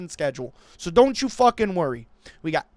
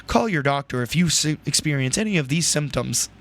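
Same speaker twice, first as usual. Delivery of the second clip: mock medication ad voice; 4 semitones lower than usual. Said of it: "Sounds like I'm listening to a fucking medication ad".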